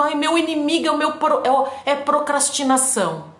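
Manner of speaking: whiny excuses. Retold or imitated. Imitated self-pitying excuses.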